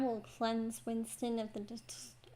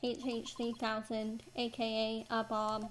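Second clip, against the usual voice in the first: robot voice. Acted. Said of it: "He sounds exactly like a robot".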